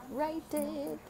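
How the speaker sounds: high, lilting urging; playful high voice. Real, not acted. Playful high repeat of phrase.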